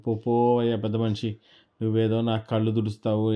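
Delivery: angry scolding. Acted. Boy shouting at the old man for his silly advice, indignant and loud. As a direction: scoff at the crazy advice and drive him away.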